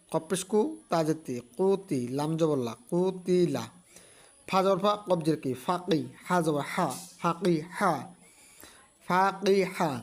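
slow, drawn-out syllable-by-syllable reading; slow spelling demo. Shown as a demonstration. Teacher spelling a Quran word for students, slow and drawn out. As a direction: build the word piece by piece, slowly. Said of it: "এরকমভাবে".

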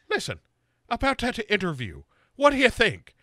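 light, pushy hammed-up pitch. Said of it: "And she's like".

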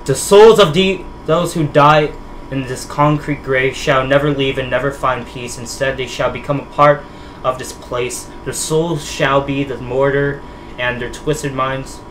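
measured, dramatic diary narration; diary read-aloud. Acted. Player reading George Walker's found diary to viewers, dramatic read-aloud. Reads game text aloud.

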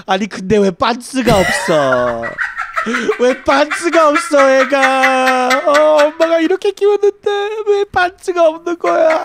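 very high, rapid Korean wailing; imitating drunk, distraught mother. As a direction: race through it in a high mock wail. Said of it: "she got so drunk".

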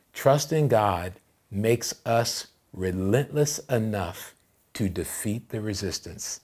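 "relentless enough" drawn out, with pauses between phrases; slow, deliberate. Real, not acted. Pastor giving the church the key point, slow and deliberate. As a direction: spell out "Trust in God" slowly, phrase by phrase. Preacher delivers key line slowly.

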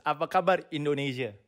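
"Apa kabar Indonesia" said softly as a model line; teacher modelling "Apa kabar Indonesia"; Indonesian demo. Shown as a demonstration. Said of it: "let's say it in a sentence".

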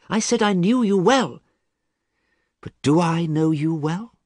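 a touch of despair in a friend; doubting friend. A narrator's reading. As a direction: question him with growing doubt. Basil doubts Dorian.

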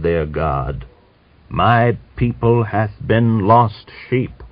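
slow, every syllable enunciated, solemn; old man reading Jeremiah aloud slowly; slow scripture reading. A narrator's reading. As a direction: intone the prophecy like a sermon. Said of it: "slowly, enunciating each syllable".

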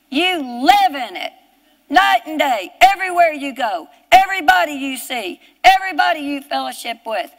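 emphatic sermon cadence, leaning on key words; fervent preaching. Real, not acted. Preacher urging the congregation to live in the power, fervent preaching. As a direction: drive each phrase home with conviction.

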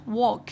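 WALK with a long, held O; "walk" said clearly with long O. Shown as a demonstration. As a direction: stretch the vowel in "walk" as a long aw. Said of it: "nó là O dài".

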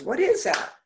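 high surprised question; curious child. Retold or imitated. Retelling a seven-year-old patient's reaction, high surprised question. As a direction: imitate a little girl's wonder.

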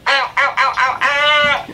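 repeated pained ows; wincing through a sharp sting. Real, not acted. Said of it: "It's just kinda painful".

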